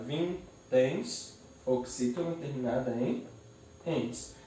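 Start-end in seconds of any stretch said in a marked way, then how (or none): 0.0-1.3 "vinténs" slowly split into vin, téns; syllable by syllable. Shown as a demonstration. Teacher separates the word, "vinténs" syllable by syllable. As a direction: leave a gap inside "vinténs". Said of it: "eu separo".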